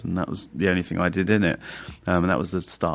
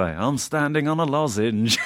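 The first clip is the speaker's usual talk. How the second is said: bad impression of a singer; 6 semitones higher, slower than usual. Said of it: "the worst singer impression".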